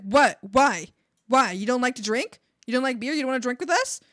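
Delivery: loud disbelieving dad questions; incredulous dad. Retold or imitated. Dad baffled she won't drink beer, loud incredulous. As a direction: act baffled and a bit hurt. Dad reacting to her refusal.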